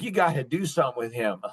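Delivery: lightly voiced nagging wife; wife complaining about their son; imitating wife. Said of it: "she's like".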